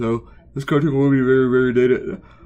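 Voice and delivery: loud words spoken mid-yawn. Talking to the audience, the speaker is yawning while talking. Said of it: "I'm sorry, I'm yawning".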